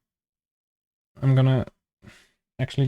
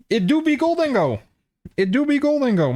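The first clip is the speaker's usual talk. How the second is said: meme voice; 10 semitones higher than usual. Pretend. Meme catchphrase, high mock voice.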